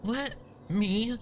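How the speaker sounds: shouting. A narrator's reading. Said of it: "she shouted".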